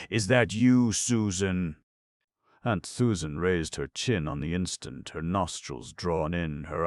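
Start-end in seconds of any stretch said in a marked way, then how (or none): 0.1-1.8 higher, hesitant call through the door; hesitating call. Acted. Sick stranger outside the door, calling hesitantly. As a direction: ask it unsure, almost afraid of the answer. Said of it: "to call out in a hesitating way".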